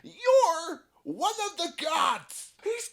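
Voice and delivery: loud, urgent warning; urgent yelling. Acted. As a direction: shout the danger at him. Kappa yells warning.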